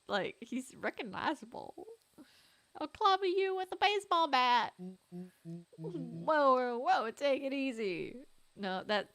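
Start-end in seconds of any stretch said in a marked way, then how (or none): 2.8-4.7 high, loud warning; shouted threat. Acted. Boy threatens intruder. 4.8-8.2 calm down an attacker in a put-on voice; trying a character voice. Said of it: "that's not the voice".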